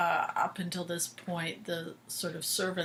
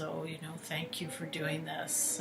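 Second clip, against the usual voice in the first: softer, mildly polite imitation; playing nice; 6 dB quieter than usual. Mason trying nice with the doctor, mildly polite. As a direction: lightly imitate someone being nice, softly. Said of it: "he tries to play nice".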